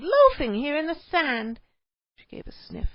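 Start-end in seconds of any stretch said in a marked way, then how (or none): 0.0-1.6 high, loud, slow nagging; indignant scolding. A narrator's reading. Cave wife nags her loafing husband, loud and slow. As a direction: drag out the outrage. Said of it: "she exclaimed".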